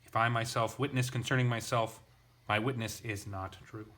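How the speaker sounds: each statement pressed like an exclamation; emphatic reading. Shown as a demonstration. Teacher reading his translation of Jesus, emphatic. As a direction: read it with exclamation-mark force. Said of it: "just put exclamation marks at the end".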